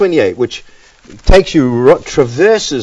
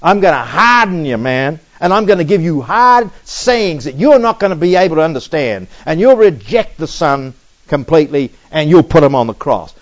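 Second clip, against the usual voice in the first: the Father speaking; 2 semitones higher than usual. Acted. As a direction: hand down the consequence in everyday talk. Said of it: "then the Father will say".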